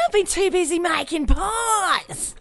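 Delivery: high, fast, squawky protesting woman; mock Fran denial.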